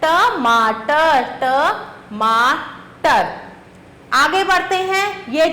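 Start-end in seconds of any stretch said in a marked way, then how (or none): 0.0-1.2 slow syllable by syllable. Shown as a demonstration. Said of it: "अगला चित्र किसका है?". 1.4-3.2 stretched out sounding. Shown as a demonstration. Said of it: "अगला चित्र किसका है?".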